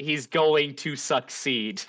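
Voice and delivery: measured, carefully separated words; clarifying. Real, not acted. Game master to player who heard "a sixteen", clarifying. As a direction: spell out "going to" and "succeed" at an even pace.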